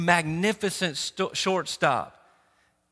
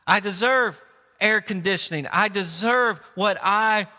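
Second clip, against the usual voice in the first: Jonah, so mad. Acted. Preacher as Jonah arguing with God, mildly angry and entitled. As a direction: insist on being right, a touch of anger. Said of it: "I'm so mad".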